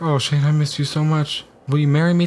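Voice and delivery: mock adoring girl's voice; imagined lovestruck girl. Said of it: "And she'll be like".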